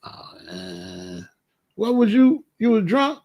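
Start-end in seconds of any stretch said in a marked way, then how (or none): 1.7-3.2 mock disbelief. Inmates mocking the shooting.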